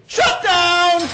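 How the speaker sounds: sudden loud shouted order; shouted command. Acted. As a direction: bark it like a Jedi mind trick. Jedi mind command.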